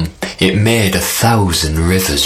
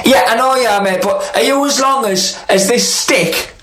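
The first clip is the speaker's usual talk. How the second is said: sly spider; 13 semitones higher than usual. Acted. Spider tricks the snake.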